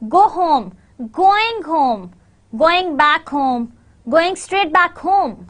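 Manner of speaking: slow, even beats on GO and HOME; stress-timed rhythm. Shown as a demonstration. Teacher demonstrating stress-timed English, slow rhythmic phrases. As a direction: drill each phrase to the same beat, falling on "home". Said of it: "there is a stress timed language".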